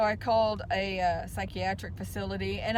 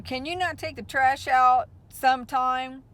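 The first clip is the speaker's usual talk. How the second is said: higher and louder, imitating an angry mom; retold angry demand; 4 semitones higher, 6 dB louder than usual. Mom snaps at her daughter about the trash, in a mock angry demand. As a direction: mimic her snapping at you. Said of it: "jumped down my throat and said".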